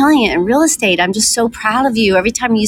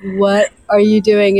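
startled quote; slower than usual. Retold or imitated. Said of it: "Kim's like".

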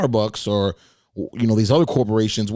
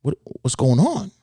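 puzzled inner thought; 6 semitones higher than usual. Retold or imitated. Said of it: "now I'm thinking".

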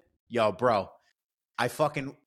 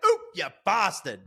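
surprised; 6 semitones higher than usual. Retold or imitated. Hitting the hidden object.

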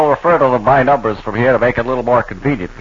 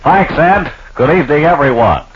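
announcer. Acted. Mock sportscaster greeting the audience.

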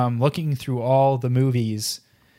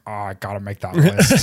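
laughing; 4 semitones lower, 3 dB louder than usual. Retold or imitated. Laughing while quoting himself.

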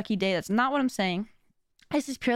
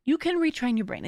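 normal talking voice

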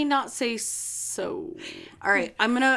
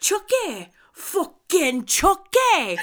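mock wail; 8 semitones higher, 5 dB louder, slower than usual. Crying-laughing mock wail.

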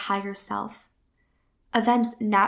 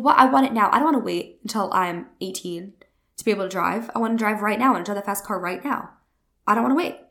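put-on pouting child; 4 dB louder, faster than usual. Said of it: "And you are pouting. You're so upset".

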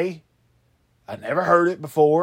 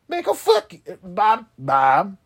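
a high, loud mock outburst at Bob; high-pitched shout of fake rage; mock angry yell; 6 semitones higher, 5 dB louder than usual. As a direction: fling it at him like a squeaky tantrum.

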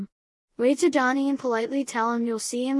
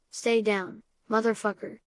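lightly gruff disguised voice. Retold or imitated. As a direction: put on a mild gruff growl. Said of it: "using a gruff voice to say".

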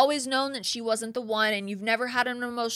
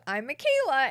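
mock little voice, pitched up; little high voice; 5 semitones higher, 4 dB louder than usual. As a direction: tease her with a tiny high-pitched voice. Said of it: "in that little, like, high-pitched voice".

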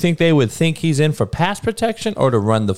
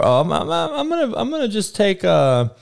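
mocking clueless student; 4 semitones higher than usual. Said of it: "they were".

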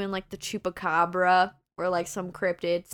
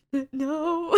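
retold sob; 7 semitones higher than usual. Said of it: "sobbing profusely".

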